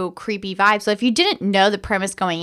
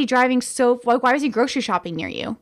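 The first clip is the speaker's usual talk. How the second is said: raised, disbelieving rant about a red flag; incredulous rant. Retold or imitated. Telling the co-host how she reacted, in a raised, incredulous rant. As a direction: pitch it up like you can't believe the guy. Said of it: "Also, I was like".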